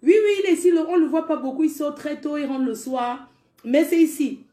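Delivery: a mamie insisting he's here; insistent mamie. Retold or imitated.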